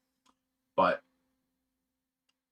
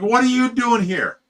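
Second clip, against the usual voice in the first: startled outburst; 10 semitones higher, 7 dB louder than usual. Retold or imitated. Girlfriend startled, caught stripping.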